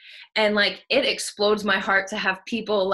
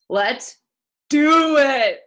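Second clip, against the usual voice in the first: big high rallying shout; hype shout; 5 semitones higher, 8 dB louder, much slower than usual. Real, not acted. Coach rallying her ladies to go, shouting. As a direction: yell it to fire up the room. Hyping the team at call end.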